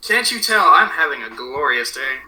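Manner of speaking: low, dry mock cheer; deadpan sarcasm. Real, not acted. Worn-out student griping to his co-host, deadpan sarcasm. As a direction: drop the pitch and feign a great day. Sarcasm after complaining about class.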